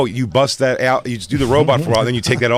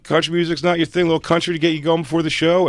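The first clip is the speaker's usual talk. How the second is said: high upbeat radio host; 8 semitones higher, faster than usual. Retold or imitated. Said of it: "he's like".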